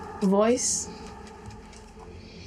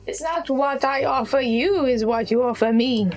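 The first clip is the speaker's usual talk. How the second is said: a hint of an old crone, scornful; lightly voiced Venoris. Venoris scorning the captive girl, lightly voiced. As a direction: dismiss her like a weary old witch. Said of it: "the old crackling voice of Venoris".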